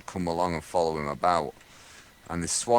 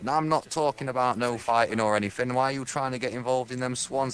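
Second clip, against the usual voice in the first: lightly voiced bobby, pitched up; a hint of a put-on copper, higher; English policeman; 5 semitones higher than usual. English policeman questioning a lad about the swans, lightly voiced. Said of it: "those English policemen with the bear hats".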